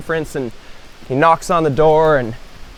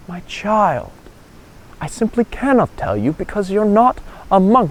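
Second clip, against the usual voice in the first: solemn monk, higher pitch, pausing; pious and serious; 5 semitones higher than usual. Acted. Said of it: "turns all pious and serious".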